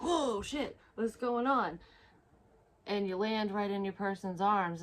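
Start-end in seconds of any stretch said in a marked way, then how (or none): 0.0-1.8 high startled whoa, falling into the unknown. Retold or imitated. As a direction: yelp it like you just dropped into a hole. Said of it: "and you're like".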